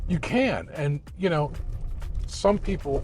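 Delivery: talking over a bumpy car ride; on a bumpy road. Real, not acted. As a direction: voice jolted by road bumps. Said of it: "sorry about the bumps here".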